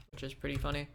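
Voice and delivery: amused, holding back a laugh; smiling voice. Real, not acted. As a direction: say it with a grin. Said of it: "you said that with a smile in your voice".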